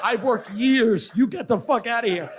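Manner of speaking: high, slowing mock-angry dismissal. Comic retells throwing his opener out of club, mock angry. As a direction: order them out in comic exasperation.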